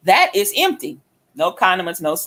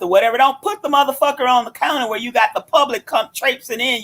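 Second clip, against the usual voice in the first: exasperated mock telling-off, building higher; retold angry rant; 4 semitones higher than usual. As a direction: replay chewing out the counter worker. Acted quarrel with restaurant staff.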